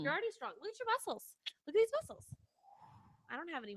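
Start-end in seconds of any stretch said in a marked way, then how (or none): 0.0-2.2 playful admiration. Acted. Teasing friend about her muscles.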